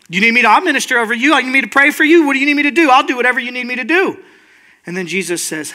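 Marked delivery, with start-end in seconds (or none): 0.1-4.2 mock-eager rapid offers; over-eager helper. Self-appointed minister offering prayer to everybody, over-eager. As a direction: rush to offer help, tumbling over the words.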